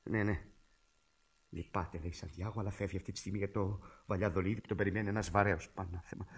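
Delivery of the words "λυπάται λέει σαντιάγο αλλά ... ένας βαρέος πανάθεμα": hushed, disappointed aside; low aside. Acted. Caller passes the doctor's refusal to his brother, quiet and dismayed. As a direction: drop the voice away from the receiver.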